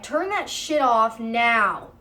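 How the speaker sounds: slow, emphatic imitated demand; retold angry order. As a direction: imitate a fed-up order, each word stretched.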